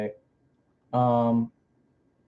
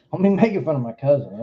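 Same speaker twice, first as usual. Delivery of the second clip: repeated through a laugh, faster; faster than usual. Pretend. Streamer repeats the joke to chat, laughing. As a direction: laugh while saying it again.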